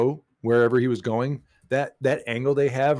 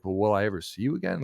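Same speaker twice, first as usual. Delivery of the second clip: mild concern; 3 semitones lower than usual. Retold or imitated. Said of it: "concerned, like, he was afraid".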